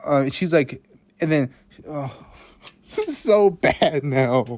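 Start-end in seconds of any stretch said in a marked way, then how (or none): 2.5-4.5 slow, loud laughing wail; embarrassed laugh. Real, not acted. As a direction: wail it through a cringing laugh.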